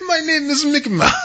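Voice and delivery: squeaky high Mickey Mouse voice, laughing; high, bright cartoon mouse with a laugh. Joking to a co-host that his name is Mickey Mouse, in a high squeaky cartoon voice. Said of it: "I don't know why he has that accent".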